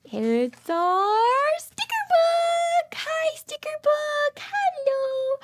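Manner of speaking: high, drawn-out excited cry; slow, delighted announcement of a surprise; delighted reveal. Acted. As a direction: gasp it out like a thrilling discovery.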